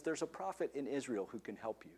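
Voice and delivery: put-on hushed, breathy whisper of the girl's words; a humble servant girl's whispered tip. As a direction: whisper it like a secret passed on quietly.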